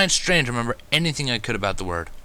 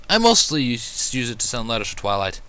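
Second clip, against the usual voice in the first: happy. Acted. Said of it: "he added happily".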